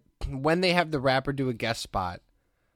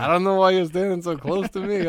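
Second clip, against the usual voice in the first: put-on higher, louder New York Jewish accent; sing-talk it like an old Jewish crooner; 6 semitones higher, 5 dB louder than usual. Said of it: "it's a Jewish accent".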